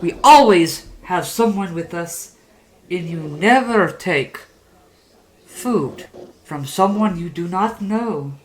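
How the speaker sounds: lightly hammed-up storyteller delivering a lesson; measured address to young listeners, key words punched; puppeteer's moral.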